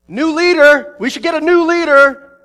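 hammed-up rebel yell for a new leader; mutinous shout. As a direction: shout it like a fed-up soldier. Army grumbles against Josh.

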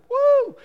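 high, loud "woo!"; praise whoop. Retold or imitated. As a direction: whoop like a revival worshipper.

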